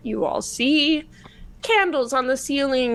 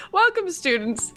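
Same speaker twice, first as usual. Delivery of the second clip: put-on slightly higher, strained old man voice; 7 semitones higher than usual. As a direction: try the old wizard voice once more. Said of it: "She gives up on the accent".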